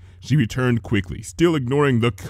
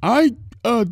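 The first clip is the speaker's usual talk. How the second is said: cheery greeting; 13 semitones higher than usual. A narrator's reading. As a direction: call out brightly as a baker. Missus Cake hesitant.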